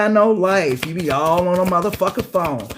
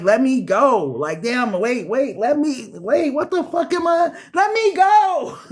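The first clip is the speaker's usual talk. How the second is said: mock struggle, voice climbing much higher to a slow strained cry; panicked plea; 5 semitones higher, slower than usual. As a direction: act out squirming free from someone's grip, rising in panic. Escaping a clingy grab, acted.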